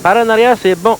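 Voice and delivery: sudden high excited call; surprised and thrilled, calling it out. Real, not acted. Ball goes round the back. (appel aigu et surpris)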